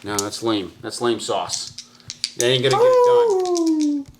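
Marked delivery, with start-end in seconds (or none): 2.4-4.0 werewolf howl. Pretend. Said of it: "did you just do a werewolf howl?".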